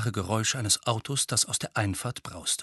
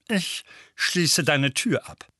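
gruff uncle voice; 4 semitones higher, slower than usual. Acted. Uncle Vernon threatens Harry.

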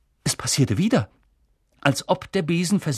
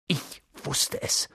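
breathless, slow gasp; 6 dB quieter, slower than usual. Acted. Hermine realising the truth, gasping. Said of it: "keuchte Hermine".

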